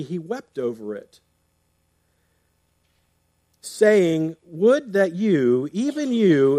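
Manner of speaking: measured, solemn Bible reading; scripture reading. Acted. Reads scripture passage aloud.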